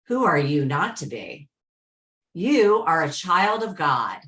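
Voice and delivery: measured, deliberate reading with long pauses; inspirational reading. Acted. Host reads a favourite quote to the group, inspirational reading. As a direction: read it out phrase by phrase, leaning on key words.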